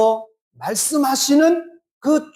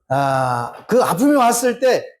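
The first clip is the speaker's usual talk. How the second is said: normal talking voice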